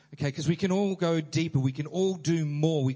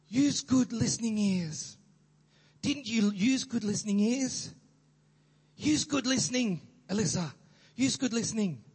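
put-on childcare worker; 5 semitones higher than usual. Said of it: "They said".

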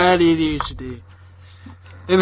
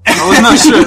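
laughing through the words; trying not to crack up; stifled giggles; 9 semitones higher, 7 dB louder than usual. Real, not acted. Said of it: "I'm trying not to laugh here".

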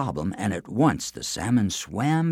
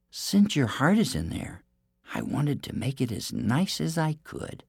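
cartoon princess; 5 semitones higher, 4 dB quieter than usual. Princess sweet-talks giant.

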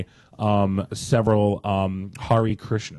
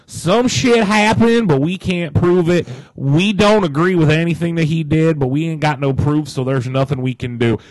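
mocking quote voice; 5 semitones higher, 4 dB louder than usual. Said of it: "He really wanted to just be like".

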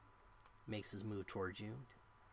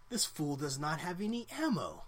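mocking goblin; 6 semitones higher, 6 dB louder than usual. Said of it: "he's laughing".

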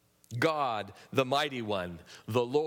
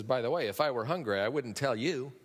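quick, wry "By the way", teasing; mocking; 2 semitones lower than usual. Shown as a demonstration. Preacher reading God's words in a mocking tone. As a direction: tease them like God laughing at them. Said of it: "with that inflection".

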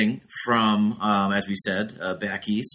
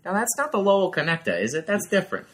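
mock surprised; 10 semitones higher than usual. Teasing confusion over roads.

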